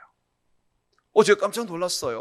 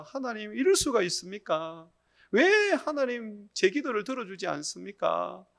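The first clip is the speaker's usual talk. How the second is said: retold pleading protest to God, building louder; resentful complaint; 4 semitones higher, 4 dB louder than usual. Deacon praying for his son, complaining resentfully to God. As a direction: plead and reproach, rising toward the final why. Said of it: "하나님께 막 원망을 했습니다".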